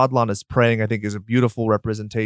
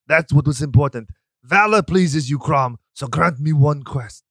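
mock-epic Conan prayer; 3 semitones higher than usual. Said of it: "You'll recall".

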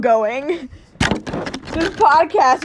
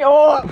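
startled oh; 6 dB louder than usual. Retold or imitated. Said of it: "Stop going".

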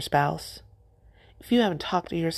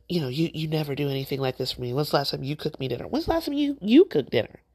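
mock nagging spouse; faster than usual. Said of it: "and be like".

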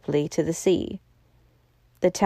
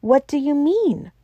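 higher-pitched, sharp demand; sharp question; 7 semitones higher than usual. A narrator's reading. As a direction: ask it sharply. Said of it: "asked Bull sharply".

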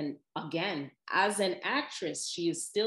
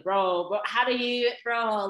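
amazed disbelief; 5 semitones higher, 8 dB louder than usual. Retold or imitated. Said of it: "She's like".

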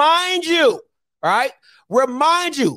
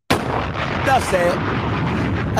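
whispered; 5 semitones lower, much slower than usual. Shown as a demonstration. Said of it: "repeated different takes".

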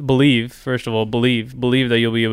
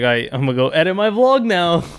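higher, mock-pumped self-talk; psyched up; 5 semitones higher than usual. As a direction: hype yourself up playfully. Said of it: "think about that and be like".

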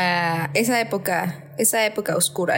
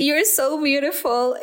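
tender Claudia; 5 semitones higher, slower than usual. Retold or imitated. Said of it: "Y Claudia así de".

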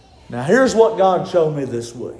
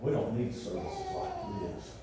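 mock church grumbler; 8 semitones lower, 19 dB quieter than usual. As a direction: imitate a stubborn old-timer under your breath. Imitates a complaining church member.

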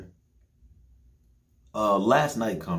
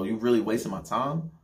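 disbelieving, half-complaining ask; annoyed question; 2 semitones higher than usual. Retold or imitated. To his girlfriend who wants to leave, annoyed asking. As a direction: let the annoyance creep in.

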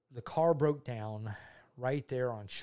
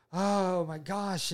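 drawn-out, higher, mildly anguished cry; retold anguish; 6 semitones higher, much slower than usual. Telling how the father was brought to his knees, mildly anguished. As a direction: stretch it out in retold distress. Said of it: "he was just brought to his knees".

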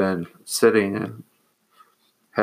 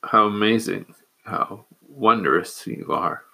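getting emotional. Real, not acted. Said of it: "I'm getting a little emotional".

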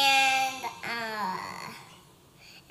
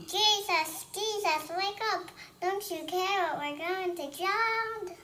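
higher, pleading call to wake Jesus; panicked disciples; 5 semitones higher than usual. Acted. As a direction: beg him urgently to wake up. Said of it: "the disciples were like this".

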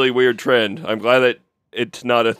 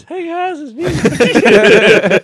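squeaky high mock noir voice; botched sexy detective voice, laughing; 6 dB louder, much slower than usual. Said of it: "Can you do a deep, uh, a deep, sexy voice".

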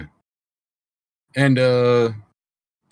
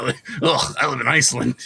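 put-on Icelandic accent; faster than usual. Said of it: "what about Icelandic Jack?".

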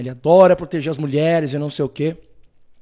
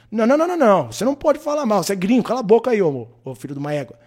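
mock angry gang; 4 semitones higher, faster than usual. Gang scolding a foreigner.

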